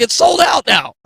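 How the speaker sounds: spring the bad news gleefully; gleeful announcement. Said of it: "She's like".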